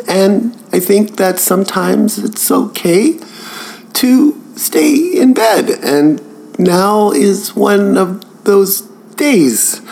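hammed-up on the verge of tears; Kathleen McGee impression. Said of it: "my impression of, uh, some of my favorite podcasts".

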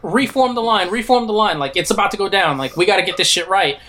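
lightly voiced captain rallying; commanding officer. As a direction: bark orders to the troops. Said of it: "then it's like".

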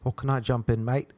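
put-on English accent, mate. English guy at the gym asking to jump in, English accent. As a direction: imitate an English bloke asking. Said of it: "English guy was like".

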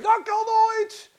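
high, drawn-out cry of disbelief; flabbergasted shout; loud disbelief. Acted. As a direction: exclaim it, stretched and loud. Acts disbelief at Peter's arrival.

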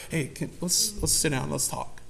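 soft, gentle invitation to talk; gentle approach. Retold or imitated. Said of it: "Or do you want to be like".

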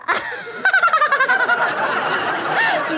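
coy high giggle. Acted. Coy giggle on the phone with Papa.

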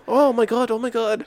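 put-on high girlish gasping; girl child voice. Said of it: "Asian girl child's voice".

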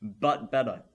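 slow, pompous quote read; quoting a critic. Shown as a demonstration. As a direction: read it like a grand movie blurb. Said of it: "To quote".

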